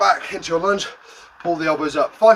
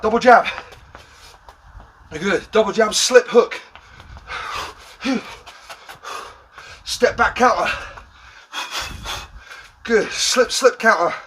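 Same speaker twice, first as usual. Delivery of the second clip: shouted commands; 4 semitones higher than usual. Real, not acted. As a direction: bark out the combos. Coach calling boxing combos.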